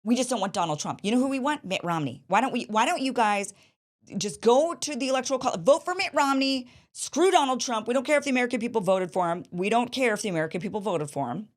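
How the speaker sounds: mocking Democrats. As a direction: ham up the scheming insiders. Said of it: "And they're saying".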